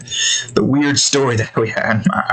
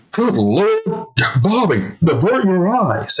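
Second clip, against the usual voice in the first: raised-pitch mock-shocked dad; higher, scandalized cartoon dad; Hank; 5 semitones higher than usual. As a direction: imitate a cartoon father appalled at the sight. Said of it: "Hanks looks at the scene and is like".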